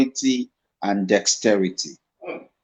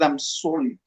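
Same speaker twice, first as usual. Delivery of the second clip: softer, pleading apology; a young actor softly begging his director's pardon; 6 dB quieter than usual. Retold or imitated. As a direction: beg forgiveness quietly. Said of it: "I was begging him".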